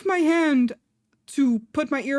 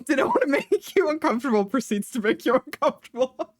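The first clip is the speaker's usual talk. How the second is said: laughing mockery; 2 semitones higher than usual. Mocking the stranger's words.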